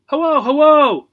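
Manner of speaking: high squawking parrot; screechy bird mimic. Parrot repeating.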